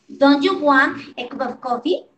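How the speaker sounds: "Don't you want a cup of coffee" word by word, rising at the end; model pronunciation. Shown as a demonstration. Teacher reading line seven for students, model pronunciation. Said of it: "la pronunciación que yo haga".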